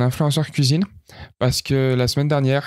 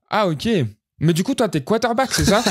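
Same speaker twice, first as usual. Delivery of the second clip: higher, clueless mock interviewer voice; mocking the TV woman; 7 semitones higher than usual. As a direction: play her as oblivious, pitch up. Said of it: "la meuf, elle était là en mode". (voix moqueuse et plus aiguë de la présentatrice naïve)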